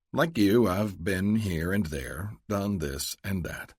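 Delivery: Luke, evasive. Acted. Luke echoes Adele to dodge her question, slow and evasive. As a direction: drawl it out, giving nothing away.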